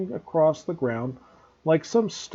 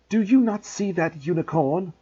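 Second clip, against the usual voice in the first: raised, forceful challenge; bellowing; 4 semitones higher than usual. Acted. Firenze rearing up at Bane, bellowing in anger. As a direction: throw it at him in anger. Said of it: "Frenzy bellowed at Bane".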